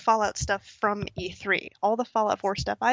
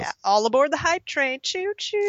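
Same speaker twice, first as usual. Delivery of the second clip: playful train call; 6 semitones higher, 5 dB louder than usual. Pretend. Mock hype train call.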